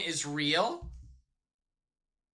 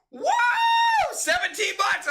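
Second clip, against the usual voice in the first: high, surprised yelp; surprised shout; 5 dB louder than usual. Real, not acted. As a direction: blurt it out in disbelief. Reacting to a donation.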